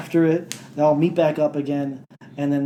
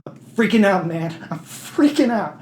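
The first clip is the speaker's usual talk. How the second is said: mock panicked Carmack; 5 semitones higher than usual. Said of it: "Carmack's like".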